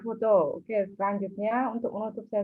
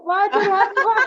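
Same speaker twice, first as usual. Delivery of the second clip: high, loud laughing remark; 10 semitones higher, 7 dB louder than usual. Real, not acted. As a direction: laugh it out loudly. Laughing at everyone venting.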